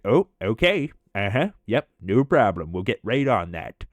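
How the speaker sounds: mock cooperative to the super; fake agreeable. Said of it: "And Mike's like".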